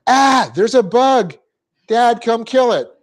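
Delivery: high, slow mock panic calling dad; hammed-up kid scared of a bug; imitating scared kids. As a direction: squeal it like a frightened child begging dad. Children calling dad about bug.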